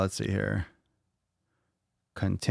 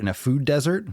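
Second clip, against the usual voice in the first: pitched up high, rising like a baffled question; incredulous echo; 6 semitones higher than usual. Shown as a demonstration. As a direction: repeat it as if you can't believe the phrase. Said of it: "you mean dessert?".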